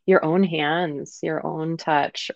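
unhurried whispered gentleness. Real, not acted. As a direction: soothe them slowly, almost whispering. Gentle touch described softly.

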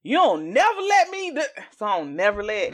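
high-pitched bickering complaint; real protest. Real, not acted. Arguing with co-host over speaking in totality, protesting. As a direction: push back hard at your co-host.

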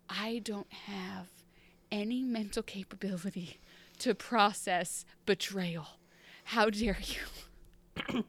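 slow, hushed, half-whispered disbelief; hushed stunned Emma. Retold or imitated. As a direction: let it drain out, stunned and slow. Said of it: "Emma's like".

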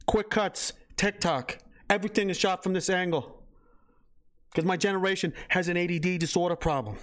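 put-on Boston accent in short, chopped phrases; mock Boston-accented explainer voice. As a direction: imitate a young Boston video maker. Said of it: "in a Boston accent".

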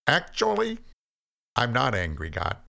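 high start, then reined in; very controlled. A narrator's reading. Cain denies anger to God, very controlled. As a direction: hold the anger in check. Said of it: "in a very controlled voice".

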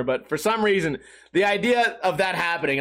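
usual speaking voice

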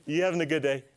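high sugary sweet-talk, rising to a squeak; mock friendly enemy. Enemy sweet-talking a congregant, high and sugary. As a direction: coax her like a fake friend. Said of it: "He's not here to say".

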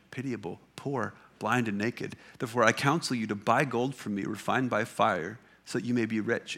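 earnest, measured reading of Jesus' words; scripture reading. Acted. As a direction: read it out as scripture to the congregation. Reads Jesus' letter to Laodicea.

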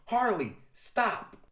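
high, loud cry breaking into a shout; high desperate call; screaming at Harley. Acted. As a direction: scream after her at the cliff edge. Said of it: "As someone screams".

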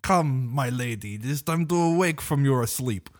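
woo her like a cheesy space romeo; mock seductive sci-fi suitor; romantic space lover voice. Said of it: "and he talks like".

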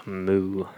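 low, soft mock moo; half-hearted cow noise after a sigh. Speaker answers "You a cow?" with a half-hearted moo.

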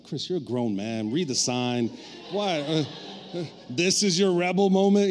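half-joking self-rebuke; scolding himself. Retold or imitated. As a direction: talk yourself down like a disappointed parent. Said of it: "I'm like".

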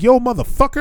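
high-pitched retold challenge; cussing him out. Traveler cussing out old man on escalator, retold angrily. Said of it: "I started cussing him out".

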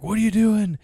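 high-pitched retold movie line; mock bewildered outburst; acted indignant question. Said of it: "he's like".

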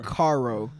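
Caro said with a single careful R; Caro, carefully pronounced to test a rolled R. Shown as a demonstration. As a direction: demonstrate the R in Caro as a test word. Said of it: "to test rolling your R".

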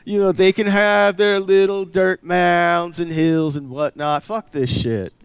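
loud, high redneck rant; redneck Biden. Acted. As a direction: rant like a fed-up redneck politician, drawn out. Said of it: "I instinctively go redneck".

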